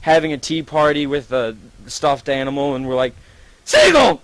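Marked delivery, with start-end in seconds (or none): 3.6-4.2 high, loud startled shout; shocked yell. Retold or imitated. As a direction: call out to a friend in alarm. Shocked friends find Seagull.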